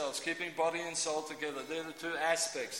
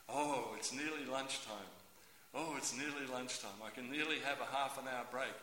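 low, soft muttering to oneself; hushed clock-watching murmur; quiet anticipation; 4 semitones lower, 6 dB quieter than usual. Acted. Worker eyeing the clock before lunch, quiet anticipation.

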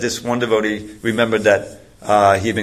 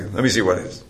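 gruff; 3 dB quieter than usual. Retold or imitated. Security guard wants to see the book, understated gruff. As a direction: lightly imitate a gruff guard. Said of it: "He says gruffly".

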